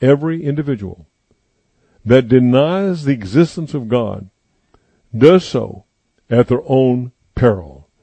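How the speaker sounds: spaced-out, solemn restatement; deliberately slow. Shown as a demonstration. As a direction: say it phrase by phrase, pausing before "does so". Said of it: "Let me say that slowly".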